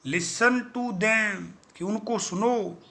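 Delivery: slow, stern command; stern repeated order. Acted. Angry boss repeats his order to the crew, slow and stern. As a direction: spell out the order slowly. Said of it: "I said".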